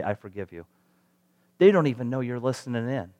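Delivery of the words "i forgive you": put-on soft and low, quoting a child; kid's forgiveness. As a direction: drop to a quiet, imitated child's pardon. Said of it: "That's how they say".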